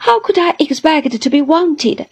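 a mild mock whimper, dragged out slowly; self-pitying old widow, slow and plaintive; pitiable whimper. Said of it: "with a pitiable whimper".

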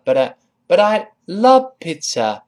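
but I love pizza with a slurred I; a student fumbling but I; wrong but I. Shown as a demonstration. Teacher imitates a student's weak I. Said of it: "那个I可能又做不到位".

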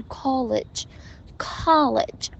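college with a rounded British O, then the open vowel; slow college, correcting the British O to "ah". Shown as a demonstration. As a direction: contrast British and American college. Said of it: "你的那个O的发音完全是英音".

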